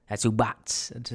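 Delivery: slow mock Italian-American slang; Soprano talk. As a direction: draw it out like an Italian-American wise guy. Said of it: "I could go into Soprano talk".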